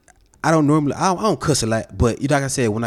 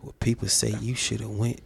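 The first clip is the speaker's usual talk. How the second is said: sarcastic; 3 semitones lower than usual. Real, not acted. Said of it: "He's being sarcastic right now".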